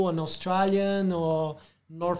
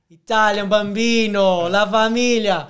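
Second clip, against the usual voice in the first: mock Italian accent; 3 semitones higher, 9 dB louder than usual. Guest shows off a bit of Italian, mock Italian accent. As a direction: toss off the Italian words like a playful Italian. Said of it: "I know some, some Italian".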